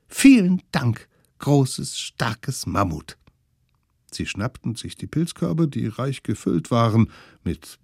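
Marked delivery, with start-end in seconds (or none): 0.1-3.2 put-on higher, sweet thankful children; butter up the mammoth like little kids; flattering kids' voice.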